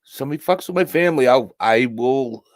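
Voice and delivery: a threat he means; protective anger. Real, not acted. Vow to protect his family.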